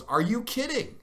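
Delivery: imitating the wife catching him with the camera; exasperated disbelief. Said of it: "this was not the kidding of".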